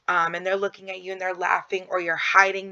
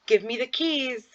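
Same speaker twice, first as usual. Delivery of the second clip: put-on higher, coaxing request to a toddler; sing-song parent cue; talking to a child; 6 semitones higher than usual. Shown as a demonstration. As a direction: ask the little one nicely for the keys. Parent directing child, example command.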